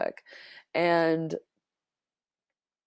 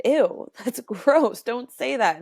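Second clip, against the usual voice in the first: retold disgust, louder and higher; slow, drawn-out "ew", then a raised telling-off; 5 semitones higher, 4 dB louder, slower than usual. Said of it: "I said this out loud to him".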